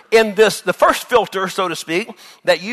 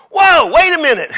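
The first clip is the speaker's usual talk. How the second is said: mock astonishment; 10 semitones higher, 8 dB louder than usual.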